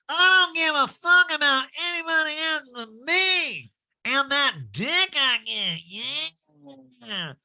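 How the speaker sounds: loud, very high nasal impression; Erica Jane. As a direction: belt it out in a pinched, brazen mock voice. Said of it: "that Erica Jane imitation".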